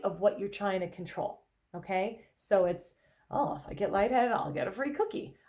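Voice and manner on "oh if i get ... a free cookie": lightly exaggerated cheer; silly, playful. Shown as a demonstration. Therapist modelling playful replies to feeling lightheaded, silly. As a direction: treat the worry as a perk. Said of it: "trying to be silly, exaggerated, be playful".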